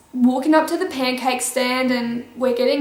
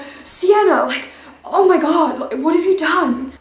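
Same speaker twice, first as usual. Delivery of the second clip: mock teacher panic; 3 semitones higher than usual. Imitating teacher freaking out.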